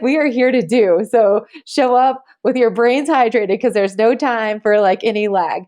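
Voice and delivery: rally the room like a coach. Retold or imitated. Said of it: "I was like".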